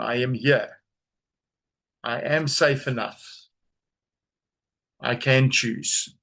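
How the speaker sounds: slow, measured words with long pauses; unhurried mantra, phrase by phrase; slow affirmation. Shown as a demonstration. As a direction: say it slowly for others to repeat. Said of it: "say this slowly".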